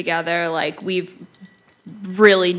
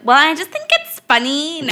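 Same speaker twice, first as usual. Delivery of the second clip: sarcastic; 6 semitones higher than usual. Retold or imitated. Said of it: "And I'll just be like".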